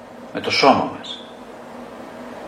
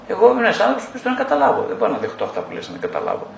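fast, higher, put-on client voice; imitated insistent client; 5 semitones higher, faster than usual. Client insisting to therapist that he must understand, hurried put-on voice. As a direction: rattle it off like a stubborn client.

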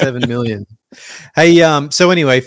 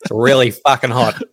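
lightly voiced blokey Aussie statistician; casual, hint of a put-on Aussie character; Australian statistics guy. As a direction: answer like a laconic local bloke. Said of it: "Where's the voice?".

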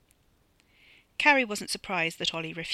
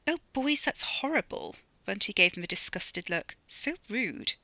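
Bunty's voice; 3 semitones higher than usual. Acted. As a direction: coo at him like a flirt.

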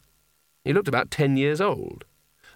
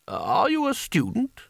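angry; 11 semitones higher, slower than usual. A narrator's reading. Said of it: "white with anger".

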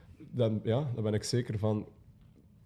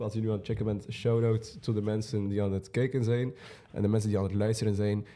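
talking through a stuffy nose; congested voice from a cold; 3 semitones lower than usual. Real, not acted. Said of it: "Ik ben verkouden".

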